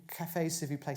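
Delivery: lightly attempted French; bad French accent. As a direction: fumble through French with an English tongue. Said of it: "sorry for my bad French".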